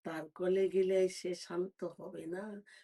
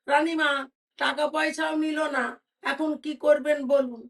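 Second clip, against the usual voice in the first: higher, louder anxious maid; worried maid; 7 semitones higher, 7 dB louder than usual. Acted. Maid tells the queen the beggar refused money, anxious raised voice. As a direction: ask the queen what to do now.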